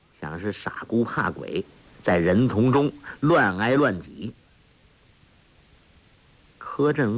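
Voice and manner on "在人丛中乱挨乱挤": plain reading voice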